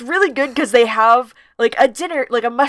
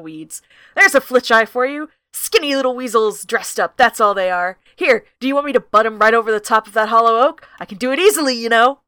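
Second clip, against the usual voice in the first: lightly voiced gruff owl. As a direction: brag with easy menace. Owl addresses travelers aggressively.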